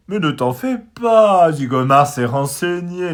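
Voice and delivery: loud, high, slow bird voice, pompously soothing; calm the mouse down, full of himself; reassuring. A narrator's reading. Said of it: "le rassure le merle".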